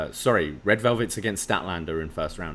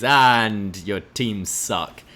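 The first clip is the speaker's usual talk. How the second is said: mock promo drawl; much slower than usual. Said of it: "it's always".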